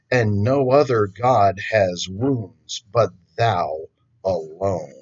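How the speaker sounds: lightly intoned devotional poem; poem reading. Acted. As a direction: read the verses with solemn weight. Reads a poem aloud.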